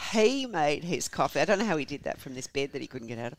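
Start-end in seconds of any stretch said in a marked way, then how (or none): 0.1-1.4 slow Southern drawl; American Southern accent. Acted. Wife answering police about the coffee, American Southern accent. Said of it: "tired of doing the accent".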